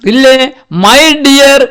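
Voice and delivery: high, slow fond call of a mother bird; mother bird greeting her baby, high and slow. Acted. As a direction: sing out to the chick she has found. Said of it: "എന്നിട്ട് എന്താ പറയുന്നത്?".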